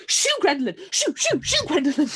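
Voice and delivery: egging her on, half-yelled; mock panicked urging; urgent mock shout. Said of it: "you see Lucy go".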